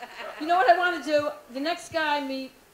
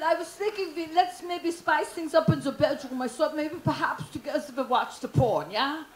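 put-on German boyfriend. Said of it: "So I said".

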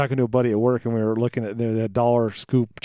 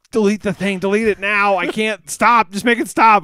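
high-pitched imitation of a panicked dad; mock-panicked, pitched-up begging; retold panic; 8 semitones higher, 4 dB louder than usual. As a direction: plead frantically, as if imitating dad. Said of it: "he called me in a panic".

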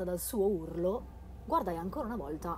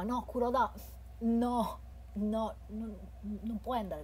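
alarmed shout; 4 semitones higher, slower than usual. Acted. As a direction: stop your friend from leaving. Begging friend not to go.

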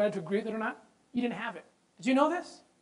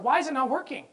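pleading with God; 4 semitones higher than usual. Retold or imitated. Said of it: "he pleads with the Lord".

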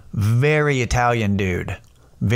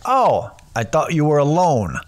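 higher, louder mock Italian-American guy; cartoon Guido; 5 semitones higher, 4 dB louder than usual. Guido at the club realizing his mistake, cartoonish surprise. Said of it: "like, cartoon Guido type of guy".

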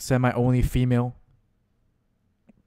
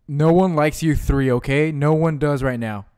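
scolding; 2 semitones higher, 4 dB louder than usual. Real, not acted. Scolding his pokemon.

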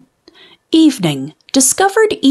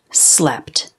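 low drowsy whisper of slept; 9 semitones lower, 4 dB quieter than usual. A narrator's reading. Reading the wombat diary, a drowsy whisper. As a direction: whisper it as if asleep.

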